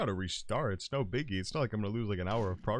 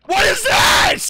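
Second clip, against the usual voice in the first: startled shout; 15 dB louder, slower than usual. Real, not acted. Startled by mimic.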